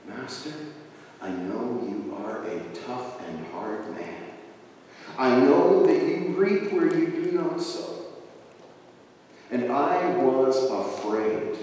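low, hushed and hesitant; halting, subdued admission; timid servant. Acted. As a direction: confess softly to a feared master. Third servant fearfully answers master.

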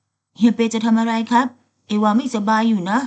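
flustered, pushing him off with words; alarmed protest. Acted. Ava startled as Petong pins him, loud and high.

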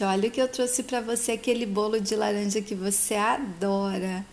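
gentle coaxing. Retold or imitated. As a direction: coax a sad child out of bed gently. Vilma wakes the child gently.

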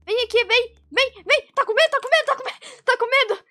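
high singsong taunting; mocking taunt. Real, not acted. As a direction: tease the hiding player. Taunting hiding camper.

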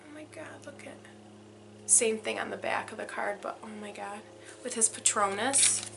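breathless hushed awe; soft whispered amazement; awed whisper. Real, not acted. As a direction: whisper in wonder at the cards. Awed by the card backs.

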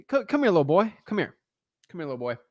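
lightly voiced pizza-shop guy beckoning; guy in the back. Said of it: "I'm gonna be the guy".

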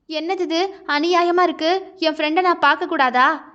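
a touch of outraged complaint; lightly voiced wife objecting; heroine protesting.

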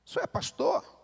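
"O senhor é pastor?" squeaked very high, mocking disbelief; mock incredulous echo. Pastor mocks the listener's excuse, very high sarcastic echo. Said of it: "talvez você diga".

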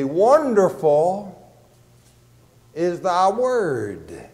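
slow, deliberate "wonderful", then a pause; emphasis on WONDERFUL. Shown as a demonstration. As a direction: stretch out "wonderful" before finishing the phrase. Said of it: "it puts the emphasis here by putting that word first".

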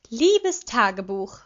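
mocking girl voice reading a diary; high girlish voice. A narrator's reading. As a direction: ham up a girly diary read. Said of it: "in einer hohen, mädchenhaften Stimme".

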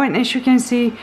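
panting between words; breathless, catching her breath. Real, not acted. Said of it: "I'm sorry, I'm out of breath".

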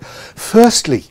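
playful Cockney put-on. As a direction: lay on a broad Cockney twang for laughs. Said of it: "down south where they talk like that".

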